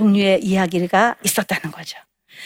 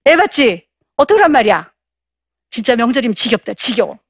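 angry wife; 3 semitones higher than usual. Acted. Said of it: "역공을 합니다".

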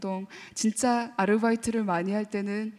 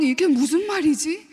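put-on puzzled child; 3 semitones higher than usual. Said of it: "어린 마음은".

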